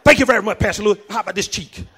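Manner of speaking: a light voice of a too-holy member; mock meek churchgoer. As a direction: play the overly pious one, tongue in cheek. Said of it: "slap you".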